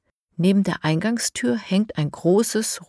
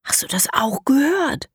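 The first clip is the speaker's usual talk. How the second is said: whisper; 8 semitones higher than usual. Acted. Lara asks Elias near the pipe, whispering. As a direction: whisper so the piglet won't hear. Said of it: "flüstert Lara".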